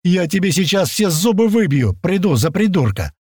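high, angry shouted threat; insulted friend flaring up at the stranger, furious; hot-tempered threat. A narrator's reading. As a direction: flare up and threaten. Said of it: "Мгновенно завёлся наш мушкетёр".

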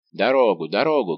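loud, forceful demand to pass; shouting. A narrator's reading. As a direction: shout to clear the way. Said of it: "кричал он". (громкий, напористый крик)

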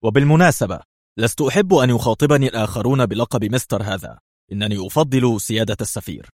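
stern. Acted. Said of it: "واستطرد في صرامة".

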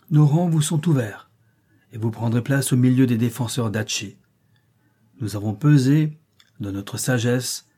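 a ruler's formal declaration; solemn proclamation. Acted. Ruler welcomes allies into the ranks of defenders, solemn proclamation.

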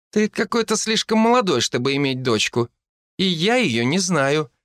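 put-on high, doubtful child's voice; wary young girl; suspicious little girl. A narrator's reading. Wary girl speaking to stranger.

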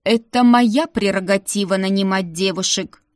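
grit your teeth and grind it out; through gritted teeth. Acted. Madam irritated at Ruta hiring a maid, through gritted teeth. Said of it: "сквозь зубы процедила тётка".

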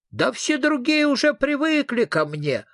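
high, eerie ghost voice, sulking; a spooky ghost feeling unappreciated; gloomy ghost. Acted. Ghost complains to Fredrikson nobody fears it, gloomy eerie whine. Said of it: "угрюмо ответило привидение".

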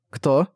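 короткое «Кто?» с подъёмом тона в конце; переспроси «Кто?», поднимая голос; переспрос. A narrator's reading. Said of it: "переспросила я". (переспрос с вопросительным «Кто?»)

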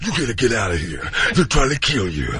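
a hint of Danny Glover; lightly voiced Danny Glover; Danny Glover impression. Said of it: "starring Danny Glover".

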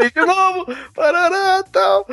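high-pitched mock panic; hammed-up high wailing; retold scream. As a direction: imitate the shrieking, tossed off in a squeal. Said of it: "ela começa a gritar".

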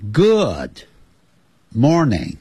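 Good and morning split apart, each falling; word by word. Shown as a demonstration. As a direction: pause between Good and morning. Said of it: "现在就要注意听了".

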